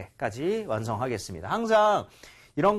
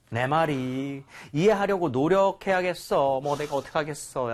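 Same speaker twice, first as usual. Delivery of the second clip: resigned agreement. Shown as a demonstration. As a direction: concede it with a touch of what-can-I-do. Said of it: "약간 요런 느낌". (어쩌겠냐는 듯 살짝 체념한 말투)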